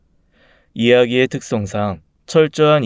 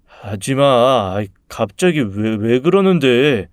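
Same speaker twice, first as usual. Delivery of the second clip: drawn-out, timid stammer; stammering protest; slower than usual. Acted. Bullied boy protesting to his tormentor, stammering. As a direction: stumble weakly over a plea to stop. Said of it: "말 더듬는 거 봤냐".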